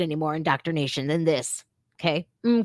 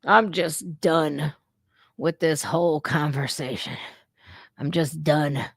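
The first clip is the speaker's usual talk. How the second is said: mocking repeat; 5 semitones lower than usual. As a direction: drag it out, tired and fed up. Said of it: "quoting the teacher".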